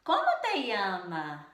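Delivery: teacher demoing Spanish question intonation. Shown as a demonstration. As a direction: stress the first syllables in "Como te llama?" with a question tune. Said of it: "nós devemos entonar da seguinte maneira".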